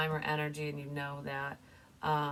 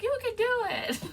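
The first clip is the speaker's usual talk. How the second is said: very high, loud cartoon cheerleader; Ducky; 6 dB louder than usual. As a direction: squeak out playful encouragement. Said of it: "And Ducky's like".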